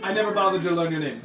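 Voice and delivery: airy dismissive voice. Acted. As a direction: toss it off like a vain hero. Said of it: "He says, uh".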